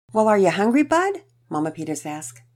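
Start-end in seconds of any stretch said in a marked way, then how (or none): 0.1-1.2 high, bright cheerful mom; a surprised, cheery mother. Acted. Mama Peters asks.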